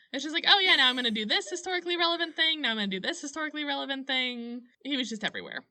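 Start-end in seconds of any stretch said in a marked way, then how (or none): 0.5-4.6 fast, bright, higher-pitched eager voice; quick mock Gump voice, lightly done; Forrest Gump impression. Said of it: "like a ye old Irish Forrest Gump".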